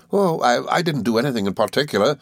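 put-on high, eager old schoolfellow; Traddles, good-tempered. A narrator's reading. Traddles welcoming his old friend, high and good-tempered. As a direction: explain earnestly in a lifted character voice. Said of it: "said Traddles".

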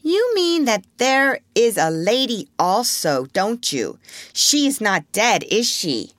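put-on high, slow child's questioning; crying out. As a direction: plead for an answer like a little boy. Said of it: "cried the first twin".

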